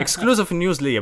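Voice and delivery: slow, laughing delight. Real, not acted. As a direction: laugh through the words. Jokes about getting secret news.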